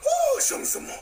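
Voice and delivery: very high laughing squeals; overexcited shriek. Acted. Big Red ogling the screen, shrieking with excited delight.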